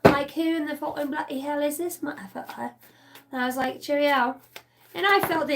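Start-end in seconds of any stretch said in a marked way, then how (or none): 0.0-2.7 higher, lightly put-on British accent. Recalling herself in the bathtub, mock British accent. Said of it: "me fucking British accent". 3.8-4.4 high mock-British sign-off; British accent. Recalling herself in the bathtub, mock British accent. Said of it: "me fucking British accent".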